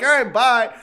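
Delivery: high, loud laughing bye; laughing mock dismissal. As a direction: toss it off through laughter. Mocking staff dismissal, laughing.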